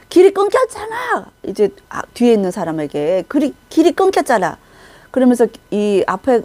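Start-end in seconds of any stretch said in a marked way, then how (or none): 0.1-1.3 high sharp angry cry; angry outburst. Retold or imitated. Preacher voicing an angry leader on a broken path, furious cry. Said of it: "화가 막 나서". 3.3-4.6 high, raised angry complaint. Retold or imitated. Leader turning on his follower, angry high complaint. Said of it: "갑자기 화가 난 거야".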